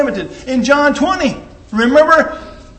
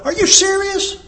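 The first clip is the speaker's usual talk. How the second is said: incredulous skeptic; 4 semitones higher than usual. Retold or imitated. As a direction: scoff at the believers as if they're fools. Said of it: "people look at us and go".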